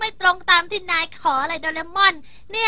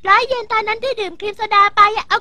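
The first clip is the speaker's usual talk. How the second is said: indignant demand; 3 semitones higher, 6 dB louder than usual. Acted. Demanding money back.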